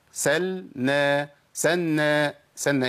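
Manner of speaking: سلنا said as سنّا, the لام turned into نون; merged lam. Shown as a demonstration. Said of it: "أبدلت اللام بنون".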